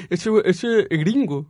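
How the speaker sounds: slow knowing voice; imitating passersby. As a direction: drag it out slowly. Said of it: "la gente cree".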